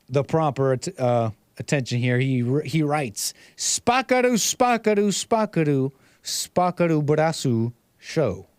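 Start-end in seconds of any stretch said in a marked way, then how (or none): 3.6-8.4 mock Asian accent. Host reading a viewer's super chat aloud, mock Asian accent. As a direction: read it in an imitated Asian accent, slowing at the end. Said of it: "a little bit of an Asian accent".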